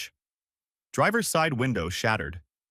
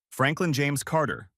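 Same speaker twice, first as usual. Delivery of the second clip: icy; 6 semitones higher than usual. Acted. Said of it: "her voice was ice".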